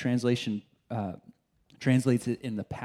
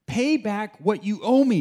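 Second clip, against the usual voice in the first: loud, slow, higher angry demand; 8 semitones higher, 7 dB louder than usual. Acted. Servant choking his fellow servant, loud angry demand. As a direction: bark the debt back at him. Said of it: "he demanded".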